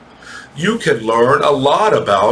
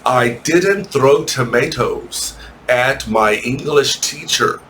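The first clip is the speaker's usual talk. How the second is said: slow model sentence. Shown as a demonstration. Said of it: "Or you could say like this".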